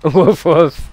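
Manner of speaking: loud mock bark; dog bark. Streamer reading another joke bark from chat. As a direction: bark it out playfully.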